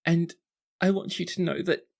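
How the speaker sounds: put-on overflowing girlish happiness; gushing teary sister. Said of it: "eyes are so big and soft and sad".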